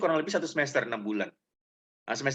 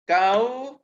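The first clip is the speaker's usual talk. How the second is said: brusque address; 6 semitones higher, 5 dB louder than usual. Retold or imitated. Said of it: "kata dia".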